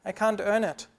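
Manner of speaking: mildly voiced moaning complaint; whiny complaint. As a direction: complain like a tired man who gave up. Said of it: "And I start complaining".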